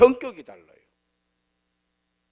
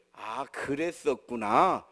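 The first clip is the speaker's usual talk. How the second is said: slow, lower, drawn-out understanding tone; imitated parental empathy; 4 semitones lower, much slower than usual. Parent receiving a child's feelings by formula, imitated empathy. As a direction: mimic a textbook empathetic parent. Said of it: "그 자녀 교육의 레파토리".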